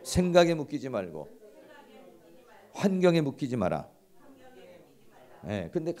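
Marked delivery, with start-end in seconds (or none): 0.0-1.3 louder phrases with pauses for the audience; leading a repetition. Shown as a demonstration. Preacher has the audience repeat the principle, leading the chant. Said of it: "한번 해봅시다". 2.7-3.9 loud call for the audience to echo; leading a repetition. Shown as a demonstration. Preacher has the audience repeat after him, loud leading call. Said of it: "한번 해봅시다".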